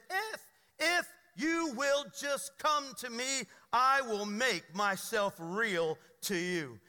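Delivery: solemn voice of God. Retold or imitated. Preacher slowly voicing God's promise to the congregation. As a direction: hand down each word like a divine promise.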